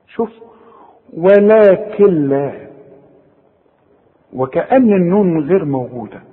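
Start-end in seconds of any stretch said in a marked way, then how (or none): 1.1-2.5 very slow ولكن لا with the noon dropped into the lam, Walakel-la; merge noon into lam. Shown as a demonstration. Teacher demonstrating idgham for the student. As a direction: join the kaf to the lam and swallow the noon. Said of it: "اشبك الكاف مع اللام".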